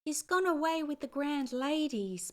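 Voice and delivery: put-on high, loud, tearful child voice; little Irish girl blubbering; bubbling little girl. A narrator's reading. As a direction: blubber through tears. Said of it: "bubbled the little girl".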